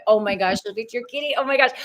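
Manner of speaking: high, delighted gushing over a cat; a real burst of delight at the pet; excited cooing at a kitty. Real, not acted. Host spots guest's cat.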